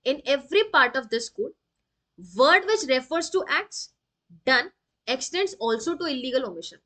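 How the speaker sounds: slow, word by word, like a dictation; slow statute reading. Acted. Teacher reading the code aloud to students, slow and deliberate. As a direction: spell out the law so students can copy it.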